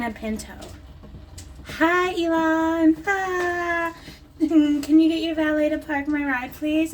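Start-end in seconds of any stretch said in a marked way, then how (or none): 1.8-6.9 high, slow, louder put-on posh voice; hammed-up fancy guest asking for the valet; mock posh greeting. Mock posh greeting to Elon Musk.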